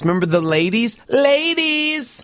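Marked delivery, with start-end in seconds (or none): 1.1-2.2 calling out. Retold or imitated. Calling out to neighbor girls.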